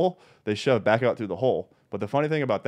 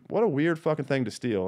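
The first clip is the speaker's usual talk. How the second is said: baffled; 6 semitones higher than usual. Retold or imitated. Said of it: "I'm like".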